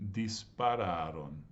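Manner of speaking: each syllable given its due, unhurried; easy and breezy, no rush; slow syllables. Shown as a demonstration. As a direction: take your time on dispararon. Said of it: "take your time saying".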